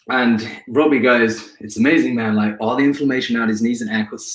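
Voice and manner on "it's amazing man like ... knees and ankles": put-on a light take on Robbie's accent, barely shifted; a hint of a friend's accent, lightly imitated. A runner quoting his mate Robbie in Robbie's accent, lightly imitated. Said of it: "Sorry about this accent".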